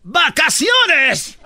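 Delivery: drawn-out gleeful shout with a laugh. Real, not acted. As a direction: stretch it out and shout for joy. Joking about losing his voice.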